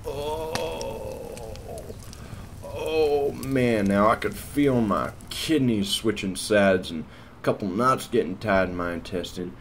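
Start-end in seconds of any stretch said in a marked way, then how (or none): 0.1-3.8 high, drawn-out winded moan; pained groan. Retold or imitated. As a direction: moan as if just flattened. Acts out pain after landing.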